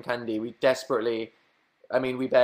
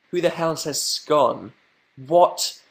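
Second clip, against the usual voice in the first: mock outrage; 5 semitones higher, much slower than usual.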